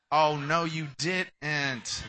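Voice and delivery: loud-ish hammed-up sass; mock sassy comeback. Person called out firing back with hammed-up attitude. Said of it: "start getting attitude with you".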